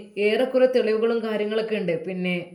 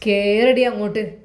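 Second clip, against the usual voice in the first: harsh order; 6 dB louder than usual. Acted. Policewoman forcing woman into jeep.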